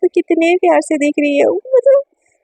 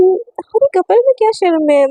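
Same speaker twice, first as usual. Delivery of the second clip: teasing; 4 semitones higher than usual. Acted. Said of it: "एकदम छेड़ते हुए बोलती है".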